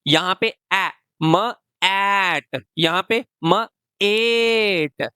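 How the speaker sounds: each letter sound said apart, then blended; slow phonics blending, sound by sound. Shown as a demonstration. Teacher sounding out a word for young readers. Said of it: "long vowel sound आएगी".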